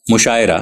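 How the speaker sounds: مشاعرہ said mushaera, pesh on meem, open e on ain; مشاعرہ with zer majhool on ain. Shown as a demonstration. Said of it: "میم کے پیش کے ساتھ اور عین کے زیر مجہول".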